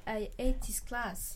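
sulky mutter. Acted. Sulking pupil leaving class.

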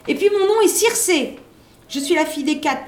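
high and loud, a little witch's angry cry; shouting. A narrator's reading. Young sorceress yelling after the fleeing girl, loud shout. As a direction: fling it back as she runs off. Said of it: "qui criait".

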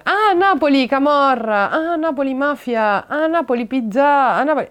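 imitating a knowing tourist; mocking clichéd reaction. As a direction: parody how strangers react to Naples. Mocking people's clichés about Naples.

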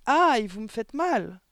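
high, loud, drawn-out protest; pained cry. A narrator's reading. Boy begs as his ears are pinched, pained cry. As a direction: cry out in pain, stretching the words. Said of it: "cria Éric".

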